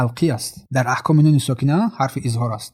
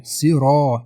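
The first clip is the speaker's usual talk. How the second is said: natural madd; much slower than usual. Shown as a demonstration. Teacher showing natural madd in صراط, vowel held. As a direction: hold the ā of صراط two beats.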